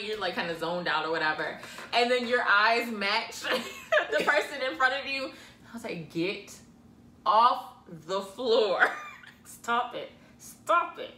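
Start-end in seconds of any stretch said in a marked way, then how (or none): 6.1-11.1 loud whisper scold. Retold or imitated. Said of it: "she couldn't whisper".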